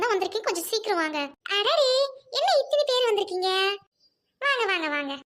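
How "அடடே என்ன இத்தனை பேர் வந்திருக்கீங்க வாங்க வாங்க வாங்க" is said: aunt startled to find so many guests, exclaiming; surprised welcome. Acted. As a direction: greet the crowd with bright astonishment. Aunt greets unexpected visitors.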